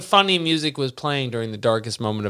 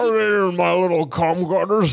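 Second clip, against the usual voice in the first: creepy Buu voice; 5 semitones higher than usual. Retold or imitated. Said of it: "He's just like".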